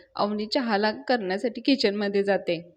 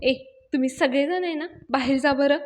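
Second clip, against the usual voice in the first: mildly cross, slightly raised voice; annoyed; 4 semitones higher than usual. Acted. Irritated woman sending all the helpers outside, annoyed. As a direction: order them out with a touch of irritation. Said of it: "Avni त्यांच्यावर चिडते".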